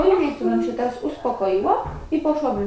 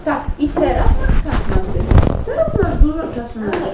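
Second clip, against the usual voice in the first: louder stern reprimand; stern scolding; 3 semitones higher, 9 dB louder than usual. Real, not acted. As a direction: scold him firmly. Mother scolding child firmly.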